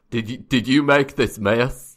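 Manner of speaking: growly oaf interrogating a suspect; grumbling, stumbling cleaner's voice; grunting, growling janitor. Acted. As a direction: accuse them in a hammed-up growl. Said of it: "he's grunting and growling".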